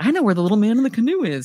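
fast, high, cocky, clueless yet self-assured know-it-all tone.

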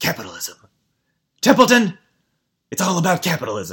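animated cartoon voice with wide pitch swings, played big. Joking about a show's politics, doing a Boss Baby Alec Baldwin impression. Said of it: "that's my Boss Baby Alec Baldwin impression".

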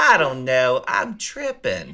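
put-on Baltimore accent. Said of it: "In that heavy Baltimore accent".

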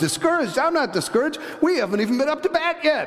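put-on confident, high, fast little boy's voice. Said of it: "the kid turns around and goes".

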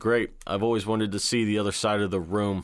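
ordinary talk

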